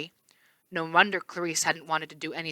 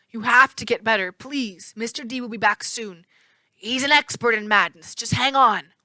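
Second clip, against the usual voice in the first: near tears; 4 semitones higher than usual. A narrator's reading. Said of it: "close to tears".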